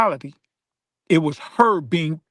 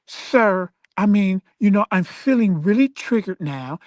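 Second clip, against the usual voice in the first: Karen voice; 3 semitones higher than usual. Retold or imitated. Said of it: "the whole Karen thing".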